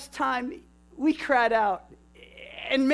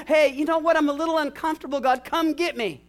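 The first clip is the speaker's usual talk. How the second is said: mock casual prayer; 4 semitones higher, 4 dB louder than usual.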